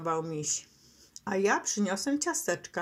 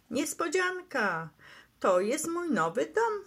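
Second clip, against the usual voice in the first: proud reveal, pitched up; happy calling out; 7 semitones higher than usual. A narrator's reading. Skunk reveals new house to his friends, excited call. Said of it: "i zawołał".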